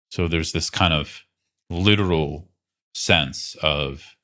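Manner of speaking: calm, unhurried guidance with long pauses; guided meditation. Real, not acted. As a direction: gently lead them into body awareness, leaving space between phrases. Leads a guided body awareness practice.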